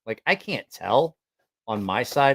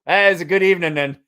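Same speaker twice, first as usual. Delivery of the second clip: quick, louder imitation British mate; botched British accent; 5 semitones higher, 6 dB louder, faster than usual. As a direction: approve in a fake British accent. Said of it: "can't do a British".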